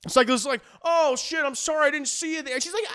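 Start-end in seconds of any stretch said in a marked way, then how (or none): 0.8-2.5 flustered mock apology. Cyclist apologises after collision.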